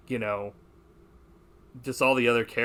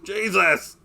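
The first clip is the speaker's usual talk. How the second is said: higher, louder startled cry; shocked exclamation; 7 semitones higher, 7 dB louder than usual. Retold or imitated. Hearing Miss Hathaway's line, mock shocked cry. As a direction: react as if scandalized. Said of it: "I'm like".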